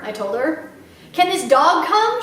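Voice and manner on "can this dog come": put-on little girl voice. Little girl Sweetie Pie.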